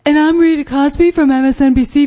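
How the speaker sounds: news anchor voice; Rita Cosby impression. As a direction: play a cable news host. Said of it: "hey, you sound just like her".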